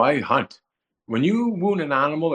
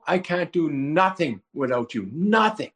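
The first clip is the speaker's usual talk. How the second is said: screaming; 3 semitones higher than usual. Retold or imitated. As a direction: plead helplessly with God. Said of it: "and I start screaming".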